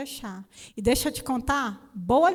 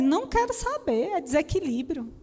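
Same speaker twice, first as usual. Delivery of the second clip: curt refusal; 6 semitones higher than usual. Retold or imitated.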